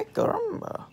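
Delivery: retold yelp at the doctor; ay caramba. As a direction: belt it out like a cartoon. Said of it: "That's what I said".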